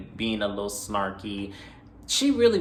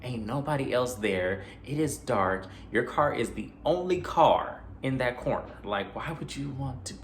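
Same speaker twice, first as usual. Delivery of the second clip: lightly put-on scared tone, pitched up and hushed; creeped-out viewer; 5 semitones higher than usual. Talking back to the heroine in the garage, mildly spooked. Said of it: "I am like".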